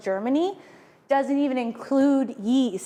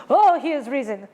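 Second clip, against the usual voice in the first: mock proclamation; 6 dB louder than usual. Easter proclamation joke.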